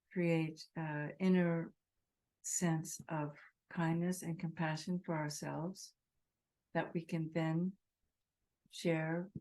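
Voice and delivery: measured meditation voice with long pauses; guided meditation. Real, not acted. Teacher setting a group's intention of kindness, guided meditation. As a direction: set the intention gently, phrase by phrase.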